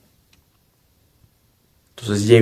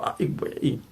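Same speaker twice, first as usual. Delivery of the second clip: awed whisper; 6 semitones higher, 11 dB quieter than usual. Retold or imitated. Reacting in awe to ego.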